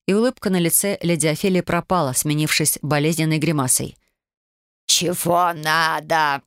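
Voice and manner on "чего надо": slow, croaking grumble; a grumpy crone barks a question; hoarse old ghost. Acted. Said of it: "прохрипела она". (прабабка хрипло ворчит)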